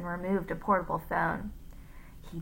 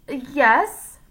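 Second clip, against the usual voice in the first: higher, loud Scottish "Yes?"; pleasant Scottish gentleman; 6 semitones higher, 10 dB louder than usual. A narrator's reading. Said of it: "pleasant voice he took from the Scottish gentleman".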